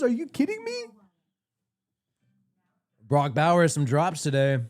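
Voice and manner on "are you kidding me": high, disbelieving squeak; can't believe what he's seeing; incredulous. Real, not acted. Shocked at player stats.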